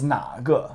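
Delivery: "naga" with a dipping, rising question tone. Shown as a demonstration. Teacher models the question word for a student, questioning "naga". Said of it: "So question".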